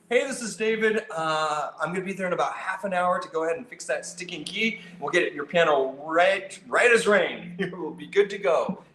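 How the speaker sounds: cheerful call that sets the customer at ease; breezy, upbeat heads-up that you're on the way; upbeat friendly phone call. Shown as a demonstration. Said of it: "you're just disarming the situation".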